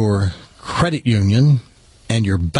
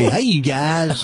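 slow, drawn-out northern "Hey, you guys."; northern accent; 3 semitones higher, much slower than usual. Shown as a demonstration. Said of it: "Otherwise, it'd be".

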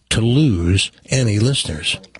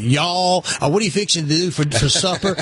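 mock Southern accent; 4 semitones higher than usual. Host mocking people back from the South, light Southern accent. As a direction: tease with a hint of Southern twang. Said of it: "they come back".

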